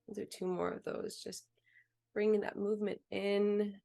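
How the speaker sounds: measured meditation voice with long pauses; unhurried instructions, phrase by phrase; guided meditation. Real, not acted. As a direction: guide them calmly through movement and breath. Leads body and breath practice.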